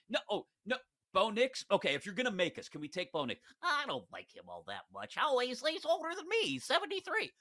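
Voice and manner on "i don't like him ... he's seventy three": put-on voice sliding much higher, a whiny old owner; hammed-up grumbling old boss; Mark Davis impression. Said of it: "I just imagine him speaking like that".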